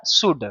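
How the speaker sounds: शुड without any L; correct pronunciation. Shown as a demonstration. Teacher checking what the word is, silent L in शुड. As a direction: go from the vowel straight to D in शुड. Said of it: "एल को silent कर दिया जाता है".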